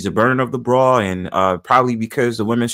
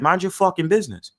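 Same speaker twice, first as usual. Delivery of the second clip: death stare retort; 5 semitones higher than usual. Retold or imitated. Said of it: "with the death stare".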